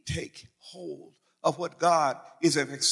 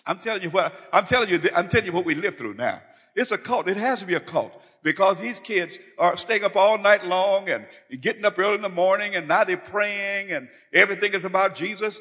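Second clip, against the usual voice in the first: mock panicky parent, louder and fast; alarmed parent rant; 3 semitones higher, 5 dB louder than usual. Preacher mimicking a parent warning that the church is a cult, alarmed. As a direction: rant like a worried parent sure it's a cult.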